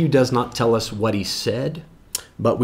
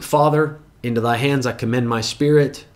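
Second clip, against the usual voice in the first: mild cried out. Acted. Preacher re-enacting Jesus's last cry, mildly cried out. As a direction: call it out as if from the cross. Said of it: "the first thing that he cried out".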